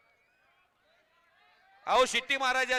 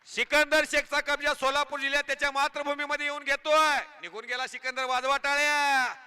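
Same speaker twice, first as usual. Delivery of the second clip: rousing announcer patter over the crowd; live commentary; 3 dB louder than usual. Acted. Commentator hyping the crowd at the kusti ground, announcer patter.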